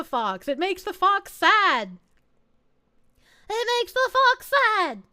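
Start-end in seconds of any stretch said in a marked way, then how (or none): 3.5-5.0 higher, whiny mock complaint; playfully wounded, pitched up; mock plaintive. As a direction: pout it out in a raised voice. Repeats the complaint more plaintively.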